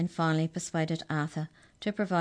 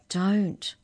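raised, urgent warning; 4 semitones higher, 5 dB louder than usual. A narrator's reading. Arthur warning Mallory not to misbehave, urgent warning. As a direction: warn sharply with one word. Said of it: "warned Arthur".

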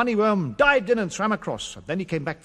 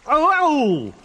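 high, slow squeaky worm; cross little worm scolding slowly; 6 semitones higher, 4 dB louder, slower than usual. Acted. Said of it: "said a voice from underneath".

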